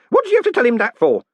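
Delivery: yelling. Acted. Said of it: "Groat yelled".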